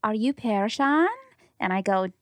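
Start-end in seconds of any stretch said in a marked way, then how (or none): 0.0-1.1 slow, lightly imitated Middle Eastern accent. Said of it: "I can't even do the accent".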